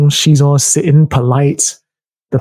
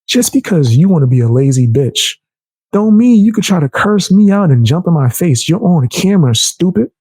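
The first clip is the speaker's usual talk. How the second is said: higher-pitched, heated comeback, half-imitated; retold angry telling-off; 4 semitones higher than usual. Telling off the lazy front desk worker, heated and higher. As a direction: throw it back at her, raised and sharp.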